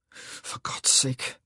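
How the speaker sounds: slow whisper through deep breaths; breathless whisper. Acted. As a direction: gasp it out, winded. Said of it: "he said through deep breaths".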